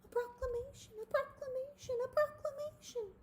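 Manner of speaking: high, breathless excited chant; excited Wilbur. A narrator's reading. Wilbur hears of the proclamation, high excited repeats. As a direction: bounce on each proclamation.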